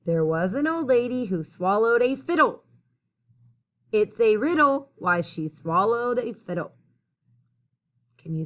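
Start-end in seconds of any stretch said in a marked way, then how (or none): 0.1-6.7 clear, lilting rhymed storytelling; picture-book read-aloud. A narrator's reading. Reader telling children about the old lady, lilting storytime read-aloud. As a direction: read the rhyme out to young listeners.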